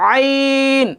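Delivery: আইন from deep in the throat; আইন with a deep, throaty ain. Shown as a demonstration. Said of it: "একটু গাঢ়, বলার চেষ্টা করেন".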